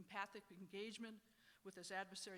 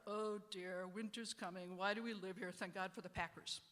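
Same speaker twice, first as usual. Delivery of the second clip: gloomy Eeyore-style mope; a hint of glum Eeyore; 6 dB louder than usual. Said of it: "It's very Eeyore".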